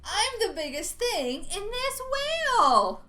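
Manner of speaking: loud, slow triumphant boast; a squid bragging from inside the whale; booming squid boast. Acted. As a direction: swagger it out as the proud squid.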